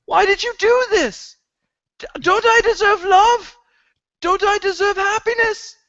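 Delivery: very high, loud outraged wail; squeaky indignant cry of betrayal; Sam voice. Acted. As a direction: shriek it like heartbroken Sam over his Gilly. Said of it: "there's gonna be no more Sam voice".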